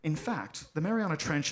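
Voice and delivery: lightly voiced documentary narrator; measured, a touch solemn nature-film read. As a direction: narrate with understated gravity. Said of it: "The narrator continues. He goes".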